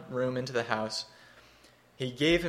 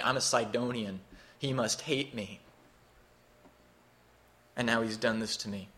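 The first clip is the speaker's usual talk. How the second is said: bitter widow; 3 dB quieter than usual. Acted. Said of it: "And so she turns bitter".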